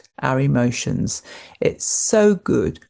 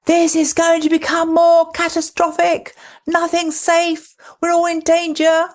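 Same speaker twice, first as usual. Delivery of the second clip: high, alarmed catastrophising voice, far higher than her own; anxious mind's headlines; 13 semitones higher, 3 dB louder than usual. Acted. Therapist voicing the anxious mind's catastrophic headlines, high and alarmed. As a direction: panicky headline voice shouting doom. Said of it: "an anxious mind often talks in headlines".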